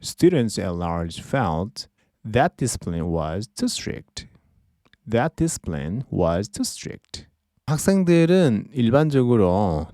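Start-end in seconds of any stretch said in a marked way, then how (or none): 0.0-7.3 very slow, deliberate sentence; slow example reading. Shown as a demonstration. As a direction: read it out word by word. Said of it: "예문 하나를 더 보겠습니다".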